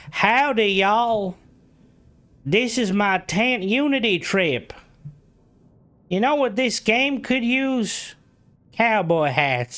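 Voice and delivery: high, slow hammed-up redneck twang; redneck Starborn. Streamer auditioning a Starborn voice for Bethesda, hammed-up high redneck twang. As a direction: play a cowboy redneck pitching hats, up high. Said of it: "like a redneck".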